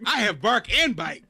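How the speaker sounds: mock Russian accent. Host answering Olivia as the Russian, mock Russian accent. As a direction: play a Russian killer, accent put on. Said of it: "same accent for all Russians in this episode".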